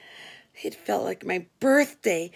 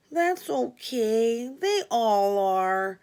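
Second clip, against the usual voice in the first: forgiving Frankie; 3 semitones higher, much slower than usual. Retold or imitated. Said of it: "Frankie absolved me".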